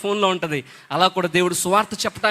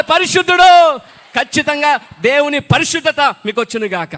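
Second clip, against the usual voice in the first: full-force preaching; 7 semitones higher, 8 dB louder than usual. Acted. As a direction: shout the blessing over the crowd like a revival preacher.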